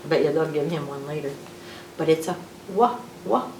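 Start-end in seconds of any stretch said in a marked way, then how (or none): 2.7-3.5 "wah" short and separate; W sound. Shown as a demonstration. Reader showing what W says, short "wah" sounds. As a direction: say "wah" as two brief rounded sounds. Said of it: "sound that the W says".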